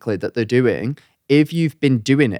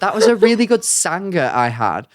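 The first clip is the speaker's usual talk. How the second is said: put-on Aussie, a little higher; playful attempt at Aussie; Australian accent; 4 semitones higher than usual. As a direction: copy the sentence in an Australian twang. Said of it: "You do your Australian accent".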